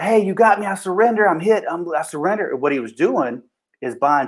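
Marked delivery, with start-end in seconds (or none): 0.0-2.5 higher-pitched mock plea of giving up; feigned surrender. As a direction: imitate a man pretending to surrender. Suspect feigns surrender to buy time.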